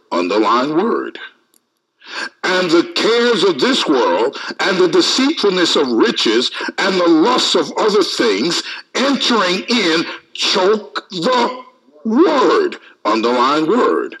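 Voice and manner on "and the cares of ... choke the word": raised, emphatic Bible reading; preacher reading a verse out, pitched up; scripture reading. Acted. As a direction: build through the list to the key word. Reads scripture aloud to congregation.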